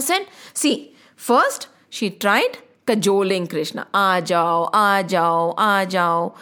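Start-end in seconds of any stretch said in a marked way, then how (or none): 3.9-6.3 a gentle hint of calling a little one to come eat; coaxing with love. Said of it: "with a lot of love".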